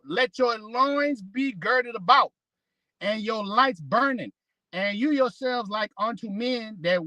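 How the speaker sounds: measured, slowed King James reading; scripture reading. Acted. Reads Luke scripture aloud.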